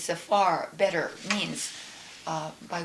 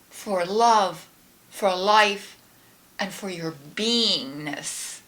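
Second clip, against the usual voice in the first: guided prayer. Acted. Leads a gratitude prayer.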